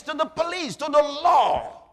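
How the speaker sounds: sermon shout to the crowd. Real, not acted. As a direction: shout it out to the congregation. Preacher shouting the point.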